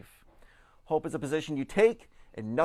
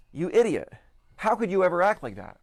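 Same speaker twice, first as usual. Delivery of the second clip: mock scorn, a touch louder and higher; contemptuous insult; 5 semitones higher, 4 dB louder than usual. To his wife, demonstrating contempt with a scornful jab. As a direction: talk down to her like she's a fool. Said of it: "Imagine if I were to say something like this to Tiff".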